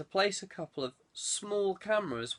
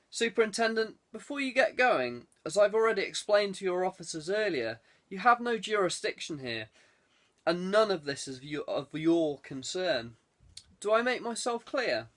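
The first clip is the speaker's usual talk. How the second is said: lordly warning; 4 semitones higher than usual. Acted. Lord warns off police superintendent.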